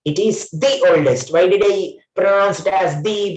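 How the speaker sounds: THE said "thee" before the vowel. Shown as a demonstration. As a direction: say THE with a long ee, "thee". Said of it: "Because O sound is vowel".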